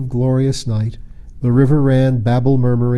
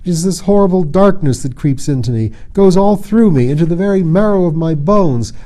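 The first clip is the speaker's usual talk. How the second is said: anguished; 5 semitones higher, 4 dB louder than usual. Acted. Photogen despairing.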